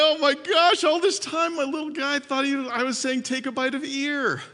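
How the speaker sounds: high-pitched astonished retelling; acted sudden realization. Dad realizing his little boy misheard him, acted astonishment. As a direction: play the penny dropping, high and animated. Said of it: "and then he realized".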